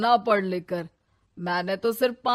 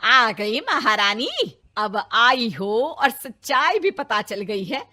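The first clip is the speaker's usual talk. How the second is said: sarcastic taunt; 3 semitones higher, 6 dB louder, slower than usual. Acted. Mother-in-law taunts returning bride.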